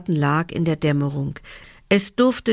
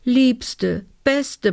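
gushing, high elf plea; pleading; 7 semitones higher than usual. A narrator's reading. Elf begs Lena for the fabric, pleading. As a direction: beg sweetly in a high voice. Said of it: "bat sie".

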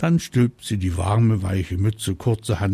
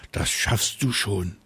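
confident. Acted. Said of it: "sagt Mama Drache zuversichtlich".

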